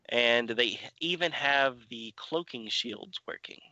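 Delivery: measured, even read-aloud synopsis; recap narration. A narrator's reading. Podcast host reads the issue summary to co-hosts, measured narration. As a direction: narrate the story in orderly phrases with pauses.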